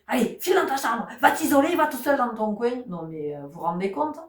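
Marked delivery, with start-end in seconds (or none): 0.1-2.8 high, sharp dismissal to the room; scolding parent. Retold or imitated. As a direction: send the child off sharply. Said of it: "on vous dit".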